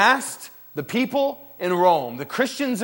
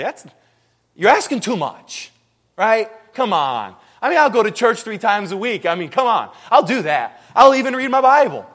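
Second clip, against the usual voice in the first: mock reluctant churchgoer; 6 semitones higher, 8 dB louder than usual. Reluctant Christian bargaining.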